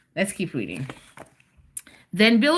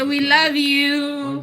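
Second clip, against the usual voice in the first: sing-song prompt; 6 semitones higher, 3 dB louder, slower than usual. Shown as a demonstration.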